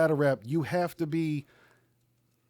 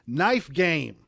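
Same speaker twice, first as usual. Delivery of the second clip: reciting battle bars; 3 semitones higher than usual. Retold or imitated. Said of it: "the bar that was popping the most".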